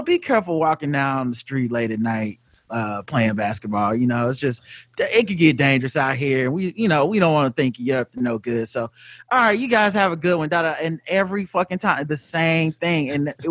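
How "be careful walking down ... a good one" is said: low, hushed fatherly warning; a hint of a condescending lawman; lightly voiced Seagal warning. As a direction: cop warning black men, low and patronizing. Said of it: "they would warn the black people, like".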